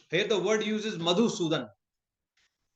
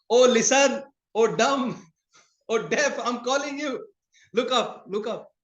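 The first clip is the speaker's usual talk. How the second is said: raised, higher calling-out voice; 5 semitones higher, 3 dB louder than usual. Retold or imitated. Boss yelling down at the distracted worker, raised call. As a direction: shout up to the worker below.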